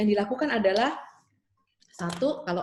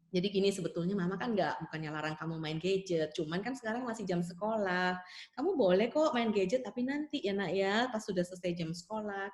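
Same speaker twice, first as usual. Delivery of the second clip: put-on softer, patient reasoning with a child; gentle explaining mother; 5 dB quieter than usual. Mother explaining the gadget rule to her calmed child, soft and patient. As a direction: talk it through quietly and kindly.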